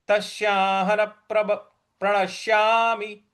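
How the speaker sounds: intoned तस्याहन प्रणश्यामि, doubled p starting प्रणश्यामि; stress on प. Shown as a demonstration. Teacher modelling the join, stressed प in प्रणश्यामि. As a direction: push into प of प्रणश्यामि on a level tone. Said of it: "इस प्रकार से बोलेंगे".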